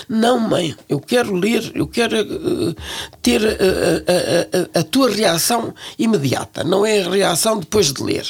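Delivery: the son insisting she react on the spot; lightly voiced pleading son; imitating her son. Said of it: "e dizia".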